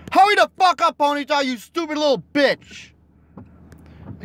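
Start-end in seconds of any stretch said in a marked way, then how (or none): 0.1-2.9 high impatient angry yelling. Real, not acted. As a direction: scream at it to hurry. Yelling at Pokemon to hurry.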